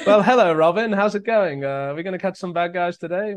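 high, loud posh superhero voice; Batman, English accent. Pretend. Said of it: "what Batman sounds like with an English accent".

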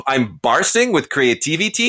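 lightly hammed-up phony Italian accent; mock Italian accent. Film critic repeating Jared Leto's line, mock Italian accent. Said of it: "that's not an Italian accent".

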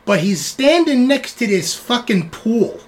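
cursing, wary rat report; wiseguy rat. Acted. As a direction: rat describing a creepy pool. Rat reports swamp room.

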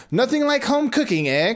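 first try, only a hint of the witch; almost the crone, not quite yet; cackling voice. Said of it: "it's a cackling voice".

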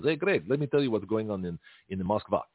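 put-on a light Russian accent as Putin, barely shifted; Putin impression. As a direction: play Putin briefing Greg, a mild Russian accent. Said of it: "Putin calls me and says".

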